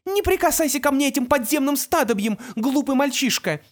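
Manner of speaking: high, loud furious outburst. A narrator's reading. Mother lashes out at her son, high and loud. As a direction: spit the insult out high.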